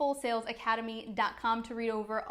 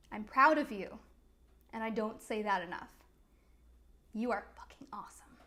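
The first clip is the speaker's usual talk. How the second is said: sincere; 3 semitones lower, 3 dB quieter than usual. Real, not acted. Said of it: "speaks affirmation to listener".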